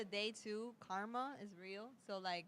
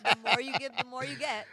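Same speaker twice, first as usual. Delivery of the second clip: preachy proverb; 4 semitones higher, 13 dB louder than usual. Acted.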